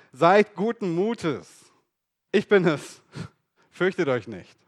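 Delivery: calm the frightened men firmly; Jesus calming his disciples on the water; reassuring Jesus. Acted. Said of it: "redete Jesus zu ihnen und sprach".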